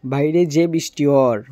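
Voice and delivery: Sylheti remark about the rain; casual Sylheti; Sylheti dialect. Shown as a demonstration. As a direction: say it as a Sylheti local. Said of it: "Sylheti ভাষা".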